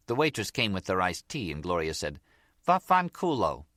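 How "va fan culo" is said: high, sweetly polite mock thanks; as if thanking. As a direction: say the curse like a thank-you. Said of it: "as though she was thanking her".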